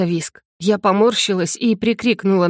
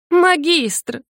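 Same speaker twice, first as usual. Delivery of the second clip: bellowing cry; 8 semitones higher than usual. A narrator's reading. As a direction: roar his title in pain and alarm. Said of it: "взревела я".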